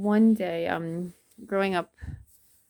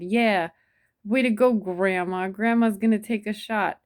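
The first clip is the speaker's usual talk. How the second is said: mock heckler yell; 3 semitones higher, 6 dB louder than usual. Heckler in the crowd jeering.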